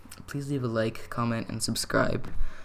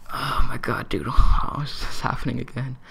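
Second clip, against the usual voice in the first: breathy whisper of disbelief under the water; hushed, half-laughing oh my god; 6 dB louder than usual. Retold or imitated. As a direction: whisper it like a secret thought. Thinking it while diving underwater.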